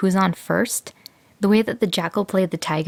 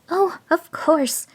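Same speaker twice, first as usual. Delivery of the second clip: higher, slow, mock-relieved jackal; jackal's cry; 10 semitones higher, slower than usual. A narrator's reading. Jackal pretends to understand, higher and slow. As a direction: play the dim little jackal. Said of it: "cried the jackal".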